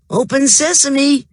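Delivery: high, loud magic incantation; magic words. A narrator's reading. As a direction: call it like a magician. Rocky trying magic words.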